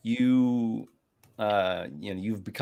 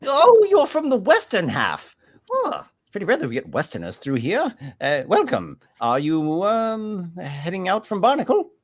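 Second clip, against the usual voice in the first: higher, louder delighted merchant; excited merchant; 10 semitones higher, 6 dB louder than usual. Acted. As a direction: welcome the rare westerner. Merchant NPC voice.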